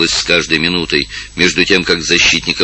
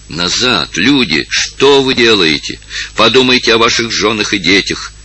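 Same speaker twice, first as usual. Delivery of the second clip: a mild desperate plea, pitched up and slowed; desperate cry; 4 semitones higher than usual. Acted. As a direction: beg the crowd to stop, a touch of despair. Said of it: "закричал в отчаянии". (староста в отчаянии умоляет толпу, сдержанный крик)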